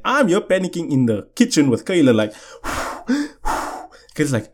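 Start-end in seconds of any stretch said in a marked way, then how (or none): 2.6-3.9 acted anxious puffing breaths; panicked breathing. Panicking in the kitchen with Kayla, puffed breaths.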